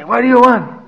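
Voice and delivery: retold excited demand, pitched high. Host grabbing the shopping list from guests, excited. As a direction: act out an eager host, voice jumping up. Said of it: "I get all excited".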